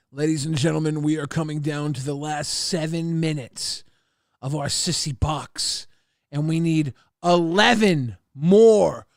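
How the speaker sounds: hammed-up hype announcer; mock announcer. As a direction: sell it like a telethon host. Announces a donation drive.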